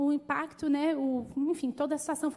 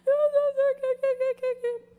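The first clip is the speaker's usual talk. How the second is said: very high, loud, stuttering fear that fades out; imitating a frightened daughter tripping over words; panicked stammer; 11 semitones higher, 7 dB louder than usual. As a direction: sputter helplessly.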